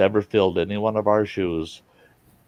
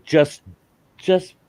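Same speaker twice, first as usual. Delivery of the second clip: imitated pleading; 9 semitones higher than usual. Family urging him to hug them, mock high pleading. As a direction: mimic the family begging, pitched up high. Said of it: "they kept telling me".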